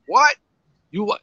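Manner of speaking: high, sharp rising "What?"; shocked disbelief. Retold or imitated. Flair, jaw dropping at his son, in shocked high disbelief. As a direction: act stunned, voice jumping way up.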